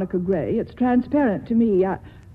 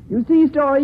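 laughing; 4 semitones higher, 4 dB louder than usual. Acted. Laughs at Story's proposal.

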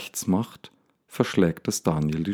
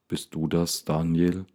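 deep full voice; 3 dB quieter than usual. Acted. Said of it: "Sie klingt tief und voll".

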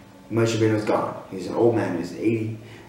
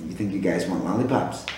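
soft, low, offhand question; casual question; 8 semitones lower, 7 dB quieter than usual. Acted. Adult quietly asks one first grade kid about lollipops. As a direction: ask it lightly and low.

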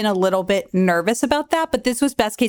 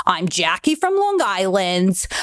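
lightly voiced shaman, slow start and finish; a hint of a put-on character; Jackie from Long Island. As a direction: imitate a comic's drawn-out character introduction. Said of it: "this bit where he's like".

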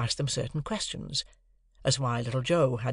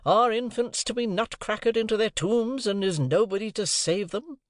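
raised, despairing appeal; desperate outcry; 8 semitones higher than usual. A narrator's reading. Father crying out over the baby, raised and desperate. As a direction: cry out in desolate despair. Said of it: "in an outbreak of desolate desperation".

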